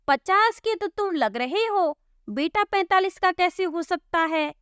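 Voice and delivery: exasperated village cop; baffled policeman. Acted. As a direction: poke at the odd answer. Policeman mocks the answer.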